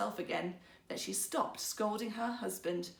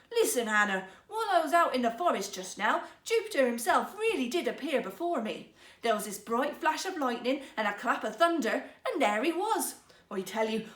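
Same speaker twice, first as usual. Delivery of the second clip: excited storytelling; 2 semitones higher, 5 dB louder than usual. Acted. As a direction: tell it eagerly, building up. Husband excitedly tells his story.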